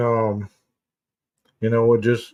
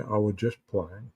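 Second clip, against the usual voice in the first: mock excuse; 3 semitones lower, 12 dB quieter than usual. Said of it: "they come back with saying".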